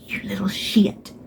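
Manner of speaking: soft whispered mock insult; mock outraged whisper. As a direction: hiss it in playful outrage.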